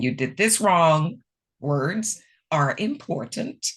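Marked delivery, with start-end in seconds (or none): 0.0-1.2 blunt critical tone; criticizing. Shown as a demonstration. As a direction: point out the fault bluntly. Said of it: "Don't come across criticizing".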